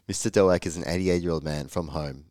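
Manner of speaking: hoarse, croaky delivery. Real, not acted. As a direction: speak with a rough throat. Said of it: "Sorry about my croaky voice".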